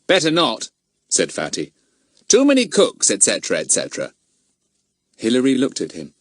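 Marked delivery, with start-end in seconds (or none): 0.1-4.1 Fatty putting off the others; knowing brush-off. Acted. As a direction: dismiss them airily.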